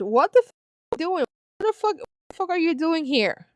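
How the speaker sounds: imitating the wife's shocked outburst; retold wife's yell. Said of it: "I heard my wife yell across the church".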